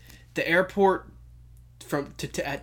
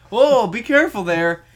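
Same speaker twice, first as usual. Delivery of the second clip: louder, friendly imitated caution; friendly warning; 3 semitones higher, 5 dB louder than usual. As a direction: act out a friendly stranger's heads-up. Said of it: "very friendly".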